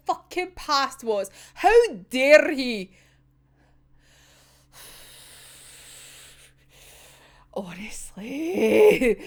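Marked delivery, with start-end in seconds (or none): 1.5-2.9 slow, pointed how dare he; indignant. Real, not acted. Fan defending Chuya, slow indignant demand. 4.7-9.2 breathy drawn-out honestly; whispered sigh. Real, not acted. Worn-out fan, whispered exasperated honestly.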